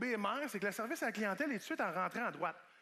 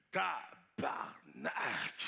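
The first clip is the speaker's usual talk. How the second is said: mock swear from the roof; 12 semitones lower, much slower than usual. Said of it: "j'ai entendu un".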